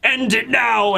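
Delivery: pleading, crying. Retold or imitated. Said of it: "he's, like, crying".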